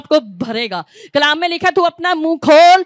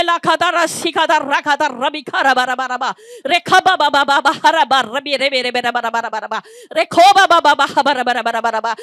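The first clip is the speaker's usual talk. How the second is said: rapid babbling syllables, pitch sliding down each run; speaking in tongues; 3 semitones lower than usual. Real, not acted. Preacher leading the congregation in tongues, ecstatic babble.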